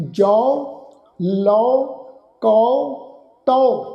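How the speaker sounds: ਜੌ, ਲਓ, ਕਉ, ਤਉ each said alone with "au"; kanaura vowel drill. Shown as a demonstration. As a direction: list ਜੌ, ਲਓ, ਕਉ, ਤਉ firmly, a pause after each. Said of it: "ਇਹਨਾਂ ਸਾਰੇ ਸ਼ਬਦਾਂ ਦਾ ਉਚਾਰਨ ਕਰਾਂਗੇ".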